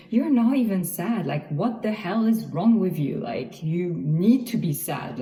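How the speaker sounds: a mock harsh inner critic shaming herself for not being sad; self-scolding inner voice. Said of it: "shamed myself in my own head saying".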